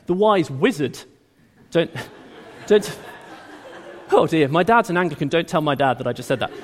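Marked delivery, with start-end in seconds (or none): 1.7-6.5 giggles through a quick aside; laughing sheepishly at his own mistake; laughing at a slip. Real, not acted. Preacher laughs at mixing up bishop and wizard.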